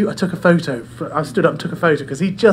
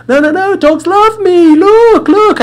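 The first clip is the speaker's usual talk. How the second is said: very high, loud hammed-up tipsy voice; drunk woman insisting; 13 semitones higher, 7 dB louder, slower than usual. Drunk woman waves off the owner's warning, very high and loud. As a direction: shriek out her drunken confidence. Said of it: "she was obviously worse for wear".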